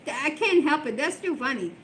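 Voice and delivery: a hint of the giggling daughter, trailing into breathless laughter; laughing daughter. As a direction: giggle out the apology. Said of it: "she's like".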